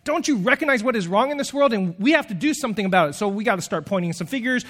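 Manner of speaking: fast, urgent call to action; rally them to overturn tables; prophet voice. Retold or imitated. Preacher voicing the prophet, urgent and fast. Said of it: "One of them is known as the prophet".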